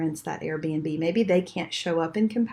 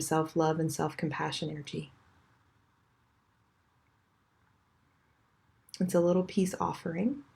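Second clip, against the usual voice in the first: guided meditation. Acted. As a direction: ease them gently into the breath. Leads a chakra meditation.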